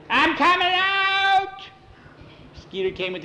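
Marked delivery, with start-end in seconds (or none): 0.1-1.6 very high, drawn-out loud squeal; panicked surrender. A narrator's reading. Skeeter gives up before Tom fires, panicked squeal. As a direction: squeal your surrender in fright.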